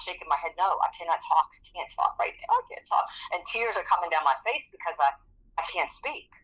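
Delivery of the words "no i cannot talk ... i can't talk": airless, voiceless words; breathless whisper. Retold or imitated. Unable to breathe, she whispers to her supervisor. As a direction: barely push the words out with no voice. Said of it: "And I'm like".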